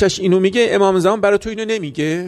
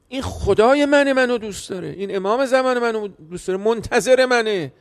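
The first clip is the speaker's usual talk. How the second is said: fervent preaching; 2 semitones higher than usual. Acted. Preaching emotional climax.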